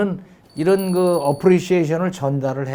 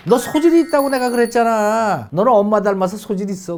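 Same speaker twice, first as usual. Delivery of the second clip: higher, beaming encouragement; proud praise; 5 semitones higher than usual. Shown as a demonstration. Mom telling her child he has talent, proud and upbeat. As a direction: boost the child's confidence proudly. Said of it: "뭐 이러면서".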